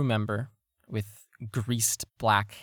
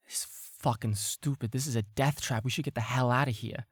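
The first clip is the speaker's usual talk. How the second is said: murmuring crew member; 2 semitones higher, faster than usual. Acted. Crew member complains while leaving, murmuring. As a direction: grumble under the breath, speeding up. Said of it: "crew members stand up and murmur".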